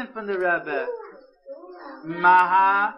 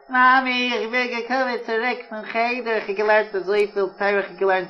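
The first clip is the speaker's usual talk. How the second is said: lightly voiced happy little boy; a child proudly telling mom; hint of a cheerful child; child's voice. Child voice reports to mother.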